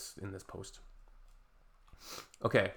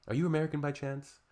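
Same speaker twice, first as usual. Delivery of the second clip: sarcastic catchphrase; 4 semitones higher than usual. Real, not acted. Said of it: "the go-to response".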